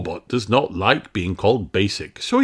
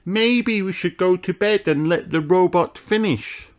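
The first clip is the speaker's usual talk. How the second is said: fairy princess voice; 13 semitones higher, 3 dB louder than usual. A narrator's reading. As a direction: cry it out like a small fairy. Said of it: "cries Holly".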